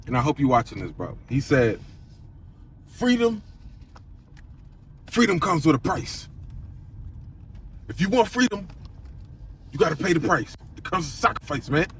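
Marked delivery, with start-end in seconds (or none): 2.9-11.9 lightly imitating a friend's thick Dutch accent; a hint of Dutch accent, quoting a mentor's wisdom. Quoting his Dutch trading buddy to viewers, mild Dutch accent. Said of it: "he says in his thick accent".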